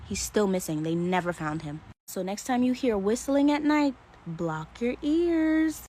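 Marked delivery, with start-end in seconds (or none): 4.3-5.8 mock spooky warning. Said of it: "No, I'm just playing".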